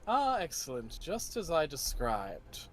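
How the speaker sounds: lightly voiced noble knight; Sir Bruno's voice. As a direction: greet them with smooth confidence.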